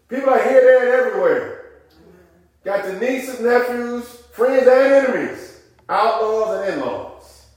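full-force gospel preaching; fiery preaching. Acted. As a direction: whoop it up to the congregation.

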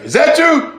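high, pointed question; challenging professor. Retold or imitated. Professor asking who protested, challenging. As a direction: imitate a professor singling someone out.

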